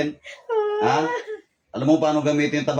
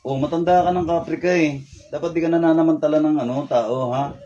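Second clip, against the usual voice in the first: angry scolding; 4 semitones higher than usual. Real, not acted. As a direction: let him have it, voice up and sharp. Healer keeps scolding old spirit.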